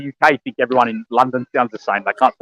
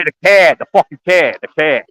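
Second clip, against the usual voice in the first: Boston accent; 3 semitones higher than usual. Shown as a demonstration. Showing mates how Bostonians say it, mock Boston accent. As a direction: say "care" as a mimicked Bostonian's "car". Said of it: "They say that".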